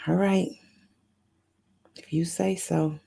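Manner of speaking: a light hint of Addie, resigned; lightly voiced, shrugging "if you say so"; mild put-on character voice. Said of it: "In my Addie voice".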